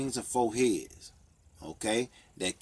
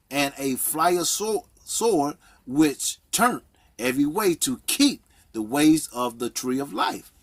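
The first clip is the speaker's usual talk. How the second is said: scripture reading; 3 semitones higher, 4 dB louder than usual. Real, not acted. Preacher reading Genesis to listeners, emphatic scripture reading. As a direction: proclaim the verse phrase by phrase.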